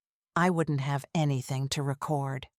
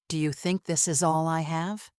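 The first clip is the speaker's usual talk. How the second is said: cold and calm. Acted. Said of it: "I said calmly".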